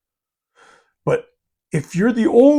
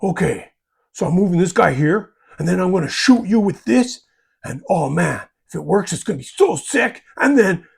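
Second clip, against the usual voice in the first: excited play-by-play. Retold or imitated. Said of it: "The pay-by-play narrator".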